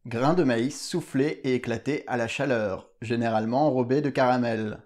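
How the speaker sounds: low, formal reading voice; dictionary definition read. Acted. Reads a dictionary entry.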